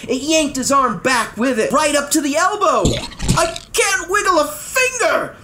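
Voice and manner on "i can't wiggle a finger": high, wailing complaint; high, mild wail. Acted. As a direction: wail in despair. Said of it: "the trumpeter wailed".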